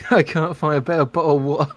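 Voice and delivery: laughing through the line. Real, not acted. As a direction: giggle while delivering the line. Player laughing at own flub.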